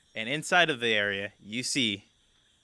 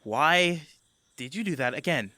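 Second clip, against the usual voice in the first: Greta voiced; 4 semitones higher, 4 dB louder, faster than usual. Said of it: "She goes".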